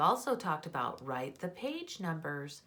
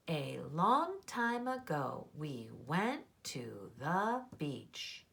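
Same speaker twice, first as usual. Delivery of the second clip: slow read, voice coming down to a stop on BEACH; full-stop intonation; slower than usual. Shown as a demonstration. Teacher rereads her story to find the period, falling stop on BEACH. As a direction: read it word by word and land BEACH as a finished statement. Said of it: "My voice just stopped there".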